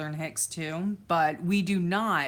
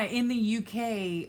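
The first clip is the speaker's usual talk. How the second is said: ordinary talk, nothing marked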